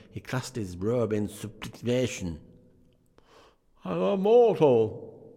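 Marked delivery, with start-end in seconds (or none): 3.8-5.3 put-on slow, much higher old-man plea; pleading Scrooge. A narrator's reading. Scrooge protesting to the spirit, slow high plea. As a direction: beg the spirit, drawn out. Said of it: "Scrooge remonstrated".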